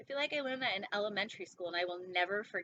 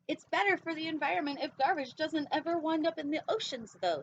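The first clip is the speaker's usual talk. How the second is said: a lightly voiced whale shark, higher and louder; preachy gentle giant, raised up; 6 semitones higher, 4 dB louder than usual. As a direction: whale shark giving a mild eco lecture, pitched high. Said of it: "says the whale shark".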